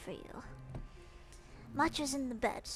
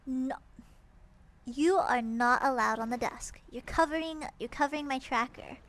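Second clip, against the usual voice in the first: scolding; 7 dB louder than usual. Real, not acted. Scolding cat on desk.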